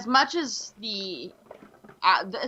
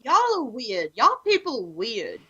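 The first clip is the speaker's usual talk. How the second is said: put-on country New York accent. Weirded out by spicy food fans, country-meets-New York accent. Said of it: "a country meets New York in a kind of accent".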